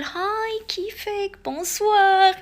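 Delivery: put-on Lebanese accent. Tunisian vlogger imitating a cool Lebanese speaker: Lebanese accent. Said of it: "اللبنانية نحسهم هكا كول".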